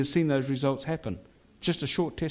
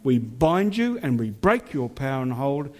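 fierce commanding prayer. Acted. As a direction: rebuke the spirits with authority. Binding spirits over the town.

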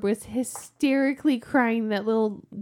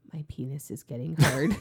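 laughing; 8 semitones lower, 4 dB louder than usual. Retold or imitated. Kid's blurt retold, she laughs.

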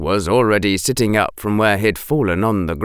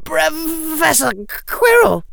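much higher, a breathless cry of alarm; gasped cry. Acted. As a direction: gasp out the name in shock. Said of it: "managed to gasp".

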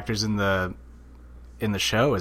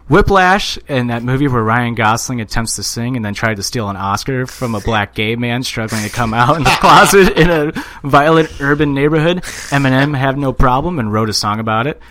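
emphatic reading; 6 dB louder than usual. Acted. Reading a listener's write-up aloud.

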